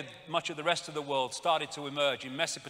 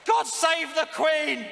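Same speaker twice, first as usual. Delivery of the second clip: mock anthem; 9 semitones higher, 5 dB louder, slower than usual. Mocking the anthem chant.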